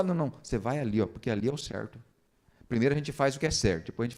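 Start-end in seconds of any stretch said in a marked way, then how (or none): 0.0-2.0 lightly voiced firm parent. Parent refusing the whining child, lightly acted firmness.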